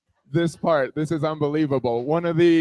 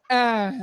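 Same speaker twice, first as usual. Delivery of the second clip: higher mock grunt; tennis-grunt moan; 4 semitones higher than usual. Woman's turn in the rally, high mock moan. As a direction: moan like hitting a tennis ball. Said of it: "like a women's tennis match".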